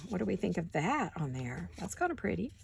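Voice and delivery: talking through hiccups. Real, not acted. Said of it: "Oh, I have the hiccups again".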